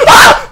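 short, very loud yell of fright; startled scream. Real, not acted. Player hit by a game scare, startled scream. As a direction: yelp out at full volume.

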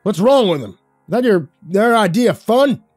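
loud, high furious rant; spitting mad. Acted. Dockmaster ranting about the drunk friend, spitting with rage. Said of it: "He was so mad".

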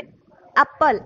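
"एप्पल" said slowly, opening on a clear A; initial A sound. Shown as a demonstration. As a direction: say "एप्पल" slowly to show its first vowel. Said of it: "बोलने में".

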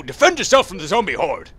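hammed-up heroic warning; mock battle cry. Player warns of the zombie horde, mock battle cry. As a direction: declaim it like a mock call to arms.

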